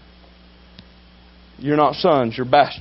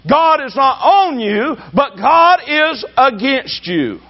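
fiery preacher pounding the point at the church; preaching at full force; 6 semitones higher, much slower than usual. Real, not acted. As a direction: drive each phrase home slowly.

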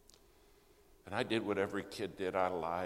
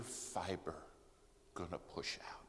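dropping to a whisper; 6 dB quieter than usual. Real, not acted. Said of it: "preacher drops to a whisper".

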